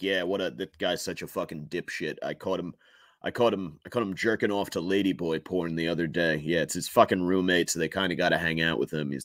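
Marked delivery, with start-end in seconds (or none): 0.0-6.4 secretive, hushed stage whisper. Voicing what one person might half-whisper to another: imitating a half-whisper. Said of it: "I bet he's whispering to him".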